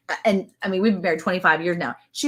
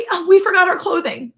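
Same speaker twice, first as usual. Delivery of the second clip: mock upset; 10 semitones higher, 5 dB louder than usual. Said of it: "She's so upset".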